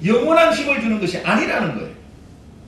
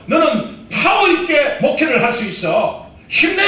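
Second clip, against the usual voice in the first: self pep talk; 3 semitones higher than usual. Pretend. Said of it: "여러분 가운데".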